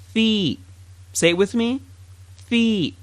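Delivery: "Thi" said as a clear F-sound fi; fi sound demo. Shown as a demonstration. Teacher models the fa sound with kesra. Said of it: "you get the thi sound".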